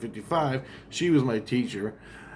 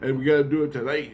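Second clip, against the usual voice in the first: much higher, hurried caller voice; urgent phone call; 7 semitones higher than usual. Retold or imitated. One Christ phoning a famous drummer, high and urgent. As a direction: play an excited guy raising the alarm. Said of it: "calls up Ringo Starr".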